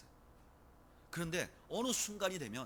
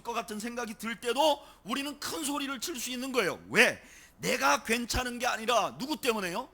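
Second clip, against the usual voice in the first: raised, driving pulpit voice; impassioned preaching; 5 semitones higher, 6 dB louder than usual. Real, not acted. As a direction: preach it with conviction. Preaching with rising force.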